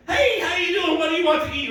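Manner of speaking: very high, chirpy waiter greeting; fake server voice. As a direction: pitch it way up like an eager server. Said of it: "I hate that server voice".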